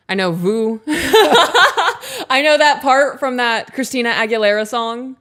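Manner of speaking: high giggly laughing voice. Real, not acted. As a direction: laugh through the words. Laughing while recalling song.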